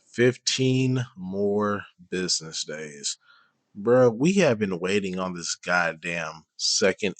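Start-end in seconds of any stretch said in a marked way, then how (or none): 0.0-3.2 sceptical echo. Real, not acted. Sceptically repeats the streamer's claim.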